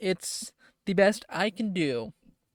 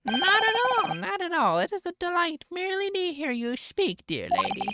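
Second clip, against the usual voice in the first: high, gushing courtesy; fawning; 13 semitones higher than usual. Acted. Court official reassuring the insulting lady, fawning. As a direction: flatter her eagerly, starting high. Judge flatters the English lady.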